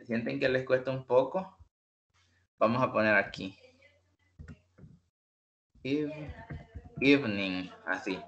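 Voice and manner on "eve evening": "Eve-" said alone, then "evening" as ivning; syllable by syllable. Shown as a demonstration. Teacher breaking the word up for slower students. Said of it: "Así sería la pronunciación".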